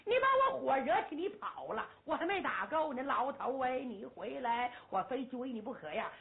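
annoyed the fight ended too soon; impatient young general. Acted. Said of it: "朱木英急了". (没打够的先锋官急着喊人回来)

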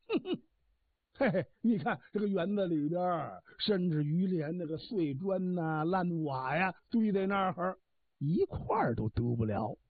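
a lightly voiced old garden god, bragging and smug; boastful old god. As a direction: puff up with pride as the elderly guardian. Old god boasts at card table.

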